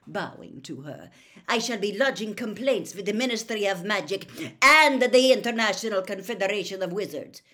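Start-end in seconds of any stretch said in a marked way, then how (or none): 1.5-7.4 loud, higher official protest; indignant, raised voice; Karkaroff. A narrator's reading. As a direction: lodge a forceful formal complaint. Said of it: "said Karkaroff".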